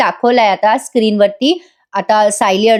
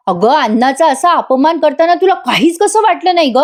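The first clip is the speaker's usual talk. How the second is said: higher and higher, a retold mild scolding; 6 semitones higher than usual. Father-in-law shames Tanvi for throwing food, mock scolding. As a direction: berate her, rising with each line. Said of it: "सगळेजण खूप ओरडतात".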